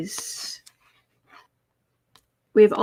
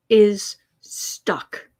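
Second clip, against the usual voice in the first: whisper. Acted. Stressing Hannity's predicament.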